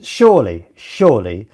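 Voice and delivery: slow, low, drawn-out disbelief; exasperated inner thought. Retold or imitated. The host recalling editing late at night, slow and exasperated. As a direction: spell it out to yourself, slowly. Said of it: "I thought".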